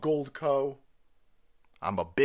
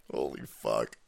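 ordinary talk, nothing marked

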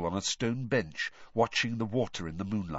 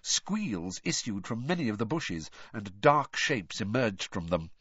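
ordinary delivery

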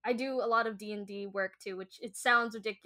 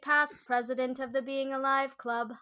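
GLaDOS voice; 3 semitones higher than usual. Pretend. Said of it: "I can mimic glados's voice from Portal".

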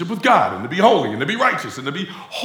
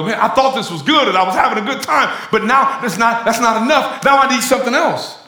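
higher, louder, laughing whine; hammed-up craving for more; mock disillusioned partier; 6 semitones higher, 5 dB louder than usual. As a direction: laugh through the letdown of the empty party. Voicing the disappointed addict.

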